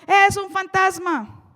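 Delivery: loud, drawn-out cry of dread; frightened cry. Acted. Disciples see Jesus walking on the water, frightened cry. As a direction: cry out slowly, full of fear. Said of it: "llenos de miedo, clamaron".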